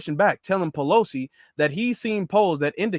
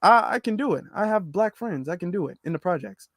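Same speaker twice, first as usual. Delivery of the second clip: mock Biden. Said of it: "he's like".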